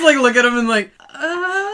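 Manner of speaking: high, strained awkward noise; awkward stare. Acted. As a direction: choke out an awkward uh. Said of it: "I just, I just".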